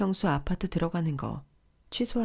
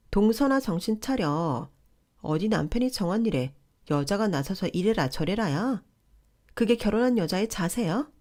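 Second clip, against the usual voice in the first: a higher, preachy sister-in-law lecturing; sister-in-law, raised pitch and bossy; pushy sister-in-law; 4 semitones higher than usual. Acted. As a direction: talk down to her like the older in-law. Sister-in-law scolding on phone.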